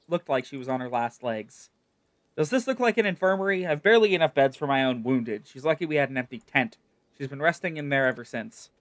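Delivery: lightly voiced, brusque soldier in charge; gruff camp commander. Camp commander grumbling to the adventurer, lightly voiced. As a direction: sound like a tired officer with no beds to spare.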